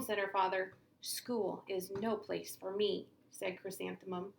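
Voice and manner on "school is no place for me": glum complaint. Acted. Sad child complaining.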